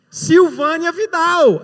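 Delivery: high, loud, slow announcement; announcing the winner. Retold or imitated. Host calling out the winner's name, loud and drawn out. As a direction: call the name out to the hall.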